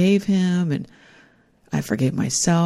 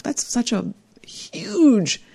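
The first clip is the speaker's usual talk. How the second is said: slow, unvoiced, higher whisper; 8 semitones higher, much slower than usual. Real, not acted. Telling listeners about not judging, in an awed whisper. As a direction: breathe the words with awe.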